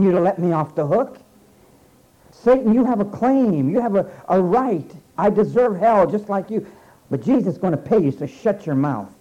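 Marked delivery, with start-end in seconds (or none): 2.3-9.1 defiant rebuke. Acted. Believer defies Satan, preached quote.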